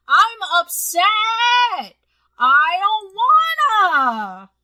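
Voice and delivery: drawn-out whine, slow and sulky; stretched-out sulky protest; whiny complaint. Real, not acted. Whiny rant about PS5.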